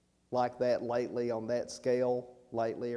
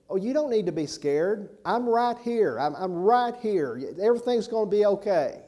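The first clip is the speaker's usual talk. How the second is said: higher, louder comforting voice for the dying woman; reassuring; 6 semitones higher, 4 dB louder than usual. Retold or imitated. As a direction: soothe her like a rescuer who won't leave. Danny reassures dying lady.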